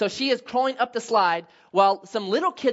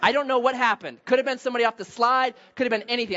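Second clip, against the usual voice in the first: mock testimony; 4 semitones higher, 4 dB louder than usual. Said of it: "So, so it was just".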